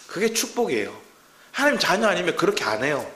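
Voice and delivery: ordinary delivery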